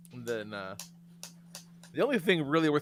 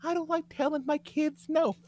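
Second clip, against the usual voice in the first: mock prissy parent; 13 semitones higher than usual. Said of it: "I cannot imagine being like".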